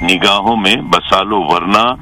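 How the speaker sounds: slow, measured verse with long pauses; poetry recitation. Acted. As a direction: recite it slowly, letting each phrase hang.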